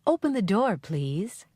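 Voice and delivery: polite request. Shown as a demonstration. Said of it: "Write P for polite, I for impolite".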